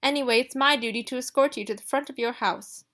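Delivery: a hint of a stuffy old butler looking down on her; stiff, disapproving servant talking down to Ruby; prim Mister Marley. Marley insists on escorting her.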